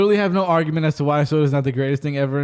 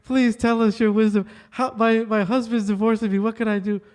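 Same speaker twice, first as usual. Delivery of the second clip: higher, gushing talk-show host pleading; Oprah impression; 6 semitones higher than usual. Host mimics Oprah pleading with her guru guest, higher voice. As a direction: beg the guru for wisdom, gushing and high. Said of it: "She goes".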